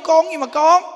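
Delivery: high, loud indignant exclamation; outraged cry of disbelief; indignant outburst. Real, not acted. Indignant over being called con.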